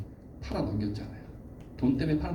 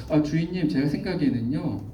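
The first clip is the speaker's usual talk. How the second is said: servant to master; 3 semitones higher than usual. Acted. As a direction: timidly venture an opinion to the master. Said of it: "종에게 생각이 필요 없어요". (주인에게 조심스레 말하는 종)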